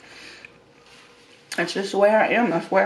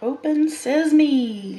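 slow, higher playful incantation; 5 semitones higher, much slower than usual. Pretend. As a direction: say it like a magic spell. Opening burrito playfully.

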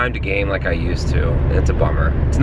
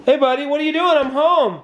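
put-on high sing-song baby talk; talking to a toddler; 14 semitones higher than usual. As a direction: coo a hello to a kid. Greeting toddler son coming home.

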